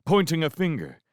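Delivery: plain reading voice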